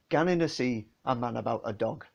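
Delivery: lightly Geordie, measured delivery; a hint of Geordie dialect; Geordie phrasing. Shown as a demonstration. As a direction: quote it as a Geordie saying, word by word. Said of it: "folks who aren't Geordies".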